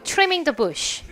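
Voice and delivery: very slow, each word drawn out clearly; slow, careful teacher read; slow model reading. Shown as a demonstration. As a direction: spell it out slowly for the class to copy. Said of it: "한 번 더 해주세요".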